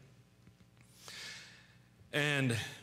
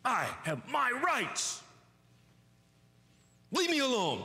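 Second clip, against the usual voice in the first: put-on higher, slow, drawn-out childish whine; whiny self-pity; 10 semitones higher than usual. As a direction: stretch it out like a sulking child. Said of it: "the cry of self".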